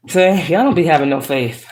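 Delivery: teasing through a laugh; laughing tease. Pretend. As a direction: chuckle while scolding them. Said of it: "I'm playing".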